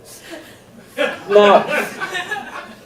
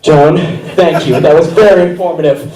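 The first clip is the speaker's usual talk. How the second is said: manic teacher; 2 semitones higher than usual. Pretend. Teacher persona with audience.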